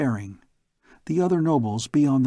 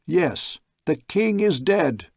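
higher, slow call to the crowd; 5 semitones higher, slower than usual. Acted. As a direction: call it down from the balcony. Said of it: "Derek called".

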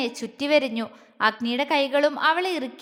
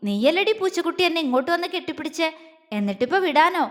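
quick, teasing indignation; mock scolding; 2 semitones higher than usual. Man teasing the girl who hugged him, mock scolding. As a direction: rattle it off as a playful accusation. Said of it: "കണ്ണുരുട്ടിക്കൊണ്ട് ചോദിച്ചു".

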